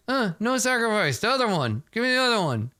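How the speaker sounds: high, quick nervous refusal; hasty refusal. Acted. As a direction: blurt it out fast and high. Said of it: "I'm like".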